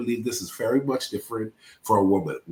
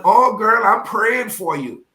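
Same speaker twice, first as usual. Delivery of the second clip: mock sympathetic friend; 9 semitones higher, 7 dB louder, slower than usual. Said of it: "everybody started posting".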